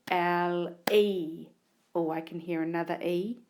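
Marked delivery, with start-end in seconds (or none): 0.1-1.5 letters L E called out clearly; name each letter as you write; spelling aloud. Shown as a demonstration. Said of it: "the second syllable".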